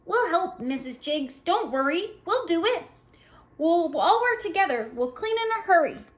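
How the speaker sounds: put-on high, bright helpful child voices; eager kids. Children reassure the mother eagerly.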